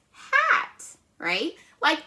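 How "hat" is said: Hat sung out very high; Hat lifted high as the answer; triumphant blend. Shown as a demonstration. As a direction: land the blended word high and bright. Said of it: "let's blend that together".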